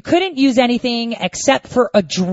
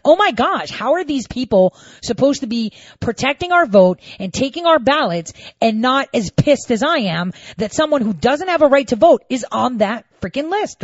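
higher, heated outrage; irate rant; 5 semitones higher than usual. Retold or imitated. Fuming to viewers about the poll workers letting him vote. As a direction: vent like you can't believe it. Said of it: "I was so irate".

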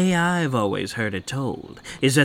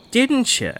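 high needling tease; 11 semitones higher than usual. Acted. Friend needles Pat about the Goat Man, high and teasing. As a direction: pitch climbs up, needling harder.

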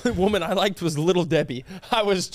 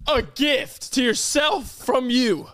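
teasing; 6 semitones higher, much slower than usual. Real, not acted. Teasing retort.

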